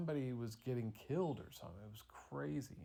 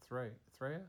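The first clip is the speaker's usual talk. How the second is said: ordinary talk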